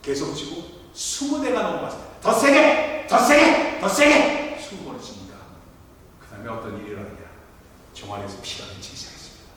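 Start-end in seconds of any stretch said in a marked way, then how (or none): 2.2-4.6 loud, much higher shouts; harder shout. Retold or imitated. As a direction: demand it louder each time. Father demands harder blows.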